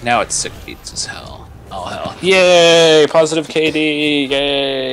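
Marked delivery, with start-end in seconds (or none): 2.2-4.9 cheering. Real, not acted. Cheering after kills.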